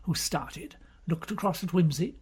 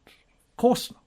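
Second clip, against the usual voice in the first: "Of course not" pushed higher and louder; emphatic insistence; 8 semitones higher, 6 dB louder, slower than usual. Acted. Parker firmly insisting to Lady Mary, louder. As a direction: hammer the denial home.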